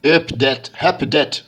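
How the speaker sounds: put-on slow, careful English accent on the English words. French YouTuber apologising for his English accent. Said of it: "Désolé pour mon accent English version".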